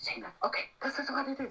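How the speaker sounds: soft, hushed whisper under the breath. Retelling her agent's phone call from a cafe, the speaker quotes her: imitating a whisper. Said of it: "she whispers".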